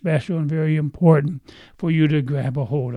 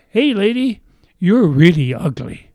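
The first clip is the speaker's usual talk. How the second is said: parrot voice; 4 semitones higher, 5 dB louder than usual. Acted. Parrot insults the lady.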